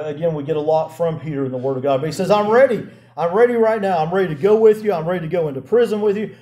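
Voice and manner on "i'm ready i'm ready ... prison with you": eager, slightly raised voice; bold pledge. Retold or imitated. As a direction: pledge yourself boldly, pressing on phrase after phrase. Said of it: "Peter's very bold".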